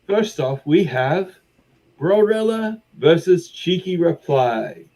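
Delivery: high, showy baroness announcing the fights; flamboyant arena host. Acted. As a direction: welcome the crowd like a grand host.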